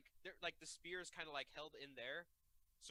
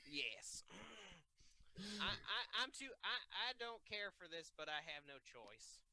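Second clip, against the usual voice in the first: put-on southern accent; slower than usual. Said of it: "southern accent is the only accent that I can do".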